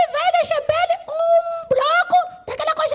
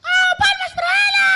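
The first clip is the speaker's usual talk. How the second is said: calling for applause; 4 semitones higher, 5 dB louder than usual. Real, not acted. Host calls for applause.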